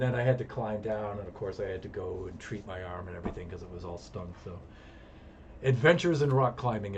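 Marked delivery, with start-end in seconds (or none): 5.6-7.0 announcing title. Real, not acted.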